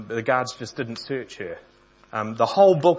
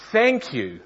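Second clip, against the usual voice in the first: serene; 11 semitones higher, 6 dB louder than usual. Acted. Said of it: "Betsy went on serenely".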